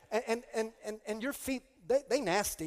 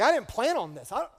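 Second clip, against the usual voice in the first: exasperated rant; 2 semitones higher, 6 dB louder than usual. Retold or imitated. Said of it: "I was like".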